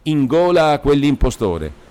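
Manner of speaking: high, raging vow; almost beside himself. A narrator's reading. Demetrio threatens the impostor, nearly beside himself. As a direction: throw it out as a furious threat. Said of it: "tornò a ripetere quasi fuori di sé".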